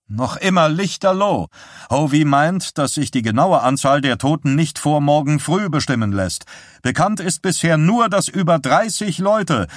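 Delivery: a hint of a rattled man passing on grim news; lightly voiced shaken husband. A narrator's reading. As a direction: relay the disaster, tense and hurried. Roger reports fire news.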